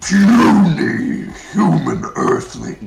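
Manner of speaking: loud, booming, high-pitched put-on character voice. Answering a viewer who asks to hear it: Megatron voice. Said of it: "can we hear the Megatron voice?".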